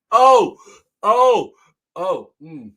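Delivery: high, loud gasping ohs, fading out; winded from laughing. Real, not acted. Still recovering from the joke, gasping high ohs. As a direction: catch your breath after laughing.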